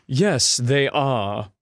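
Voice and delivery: put-on second try at a British accent; careful, clipped-short British accent attempt; readjusted British accent. Voicing the British guy after readjusting, British accent. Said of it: "I'm gonna readjust".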